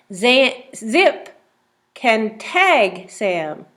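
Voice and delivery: very slow, each word apart; slow reading. Shown as a demonstration. Teacher reading the tag page slowly for the child. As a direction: read word by word. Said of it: "Let's read the words".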